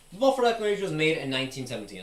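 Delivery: fast, punchy pop-up intro read; pop-up intro line. Shown as a demonstration. Popping into frame with a fast intro read. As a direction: rattle it off as you jump in. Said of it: "and then I'll be like".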